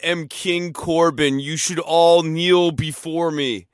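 slow, loud regal heel voice; megalomaniac rant. Pretend. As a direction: lord it over the crowd. Acting King Corbin promo.

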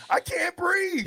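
high, strained cry for air; mock crushed player crying out; gasping panic. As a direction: choke it out like you're crushed. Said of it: "acting trapped under pile".

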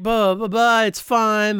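offhand brush-off; dismissive. Retold or imitated. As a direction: wave it away carelessly. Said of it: "they just being real dismissive".

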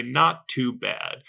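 very slow, dry and flat-toned British shrug; understated Brit. Retold or imitated. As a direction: drag it out like a deadpan Brit. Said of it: "they will say".

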